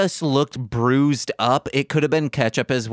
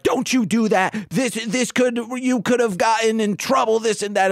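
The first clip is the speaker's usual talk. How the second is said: retold scolding; 8 semitones higher than usual. Upset older couple scold the kids.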